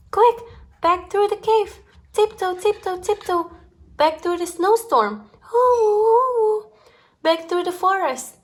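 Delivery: high, hurried escape; panicked rush. A narrator's reading. Reading to a child, fleeing home in a high panic. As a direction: race home in a fright.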